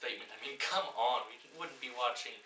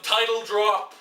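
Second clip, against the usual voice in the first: loud, high title-drop shout; hammed-up title call; shouted announcement; 8 semitones higher, 13 dB louder, slower than usual. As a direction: yell it like a movie trailer.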